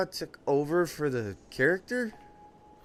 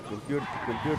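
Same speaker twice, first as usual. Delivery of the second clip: toy robot voice. Pretend. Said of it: "This is Robot King Julian".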